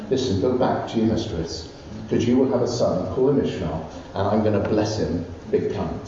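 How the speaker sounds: low, gently spoken promise; loving reassurance. Acted. Preacher voicing the Lord comforting runaway Hagar, loving reassurance. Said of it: "the Lord came so lovingly and said".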